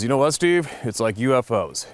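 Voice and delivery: mildly agitated buddy pushing back; half-hearted imitation of a fed-up friend; annoyed. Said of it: "And he got kinda angry".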